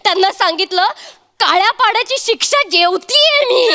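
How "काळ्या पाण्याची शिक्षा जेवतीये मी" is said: laughing. Acted. Wife retells mocking call.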